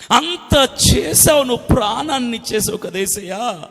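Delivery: mildly tearful confession; demonstrated tearful prayer. Shown as a demonstration. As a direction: plead as in a weeping prayer. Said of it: "అని ఏడు".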